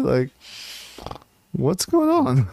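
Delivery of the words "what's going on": spaced-out voice. Retold or imitated. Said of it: "She's just".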